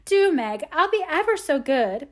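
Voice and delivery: put-on high-pitched, begging child; pathetic pleading. A narrator's reading. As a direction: beg as pitifully as you can. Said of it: "pleaded Amy, looking as pathetic".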